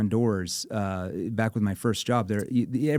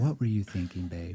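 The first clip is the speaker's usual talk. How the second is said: concerned tone; 4 semitones lower, 3 dB quieter than usual. Shown as a demonstration. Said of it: "Change the tone a little bit".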